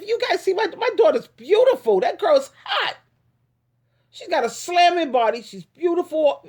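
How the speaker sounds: high-pitched proud gushing; gush, pitch climbing well up; gushing praise. Real, not acted. Mother bragging on her beautiful daughter, high gushing praise.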